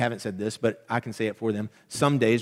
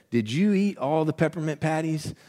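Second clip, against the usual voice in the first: higher mock-accusing question; wife accusing; 4 semitones higher than usual. Wife Rachel accusing husband about Phoebe's patties, mock suspicion. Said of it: "and she said".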